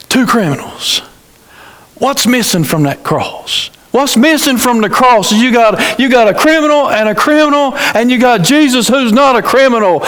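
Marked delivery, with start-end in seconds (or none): 3.9-10.0 higher, building fervour; rising preaching. Real, not acted. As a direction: drive the point home.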